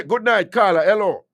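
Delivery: upbeat radio hello; bright greeting. Real, not acted. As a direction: welcome the caller on air. Radio host greets caller.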